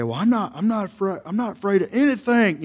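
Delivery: caricatured Southern redneck bluster; redneck bravado. Acted. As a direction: puff up like a boastful redneck. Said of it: "redneck with the wife beater".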